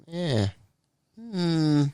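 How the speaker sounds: lightly voiced Holy Spirit.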